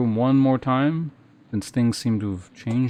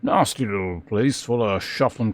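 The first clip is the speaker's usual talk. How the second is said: gruff border guard. Acted. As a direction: play a surly guard warning strangers away. Guard NPC voice by player.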